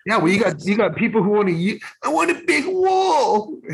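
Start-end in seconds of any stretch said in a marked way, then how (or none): 2.0-3.6 much higher, slow, put-on voice of a blustering politician; mock politician voice. Cohost mocks a guy with a put-on, slowed voice. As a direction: drawl it out as a pompous leader.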